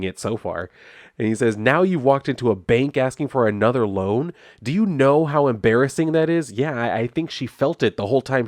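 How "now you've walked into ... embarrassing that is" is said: mock reproach, pitch lifted; acted scolding. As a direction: scold her, lightly acted. Retold husband scolding wife.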